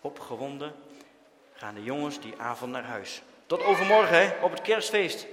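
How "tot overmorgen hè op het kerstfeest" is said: loud, high call across the street. A narrator's reading. Boys calling goodbye on the way home, loudly. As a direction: shout the goodbye after them.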